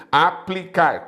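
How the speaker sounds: "Aplicar" spaced out as A-pli-car; syllable division. Shown as a demonstration. Teacher showing that PL sticks together, syllable by syllable. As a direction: split "Aplicar" slowly, keeping PL together. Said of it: "com L você gruda".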